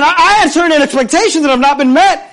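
understated outrage in a preacher's reenactment; in a rage. Acted. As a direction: protest like an affronted man, a little heated. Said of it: "went away in a rage".

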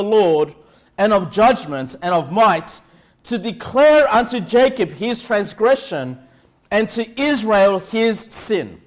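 slow, weighty Bible reading; scripture reading. Acted. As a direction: lay each phrase down with gravity. Reads Micah 3:8 slowly.

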